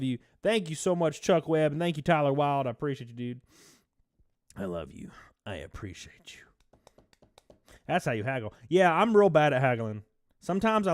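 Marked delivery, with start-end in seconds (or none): 4.6-6.4 low, very soft whispered thanks; tender whisper. Real, not acted. Streamer thanking donors for support, tender whisper. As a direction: drop to an intimate whisper.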